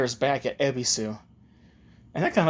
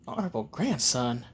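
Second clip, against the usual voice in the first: disbelieving echo; 6 dB quieter than usual. Acted. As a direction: repeat the title quietly, in disbelief. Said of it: "Wait, is this, no way".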